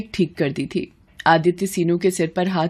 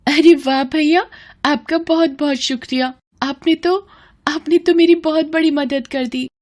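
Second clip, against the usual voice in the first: high, delighted burst of gratitude; excited thanks; 5 semitones higher than usual. Acted. Girl overjoyed, thanking the kind brother. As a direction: gush with joy at the good news.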